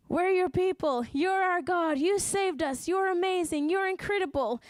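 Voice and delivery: excited praise. Acted. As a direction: voice the people eagerly reaffirming their devotion. People acting out reaffirmed devotion.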